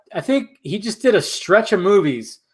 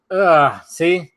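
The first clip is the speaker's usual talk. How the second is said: hiccups. Real, not acted. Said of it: "hiccuping like that fucking stork".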